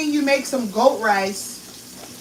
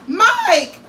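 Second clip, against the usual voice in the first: loud call across the house; hollering for her husband; 8 semitones higher, 6 dB louder than usual. Real, not acted. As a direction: shout his name to reach another room. Calling husband from kitchen.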